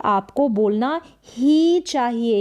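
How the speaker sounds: a firm press on ही; stress on ही. Shown as a demonstration. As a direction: push on ही to show it must happen. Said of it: "ही कर कर हमने pressure, यहाँ पर दबाव लगा दिया". (ही पर दबाव डालकर बोलें)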